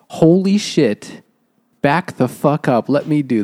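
a nurse pushing the useless men aside, mock alarm; mock alarmed outburst. Claire takes charge of injury.

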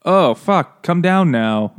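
half-shouted retold alarm; mock yelling. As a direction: act out calling someone down. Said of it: "then they yell at her".

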